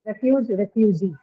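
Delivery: "refugee" stressed on the final "gee", after plain "refuge"; "refuge, refugee" as a contrast, the second landing on its long last syllable; stress shift to long vowel. Shown as a demonstration. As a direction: show the stress moving to the end in "refugee". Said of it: "usually the stress is on".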